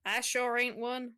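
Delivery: playful put-on southern accent; sassy denial with a southern twang; weird southern accent. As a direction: joke in a hammed-up southern accent. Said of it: "doing this weird southern accent".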